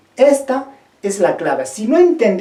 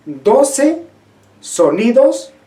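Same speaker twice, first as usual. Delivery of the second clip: doce said higher with a rise; stress on doce; 4 semitones higher, much slower than usual. Shown as a demonstration. Teacher stresses the number of vowel sounds. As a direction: lift doce and sonidos to stress them. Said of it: "emphasizing the count".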